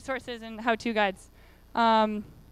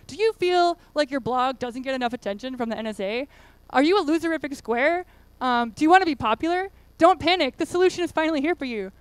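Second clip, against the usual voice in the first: fake ad pitch; 3 dB louder than usual. Presenter reads the zine's fake ad as a cheesy infomercial pitch. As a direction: sell it like a cheesy TV ad. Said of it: "a fake advertising thing".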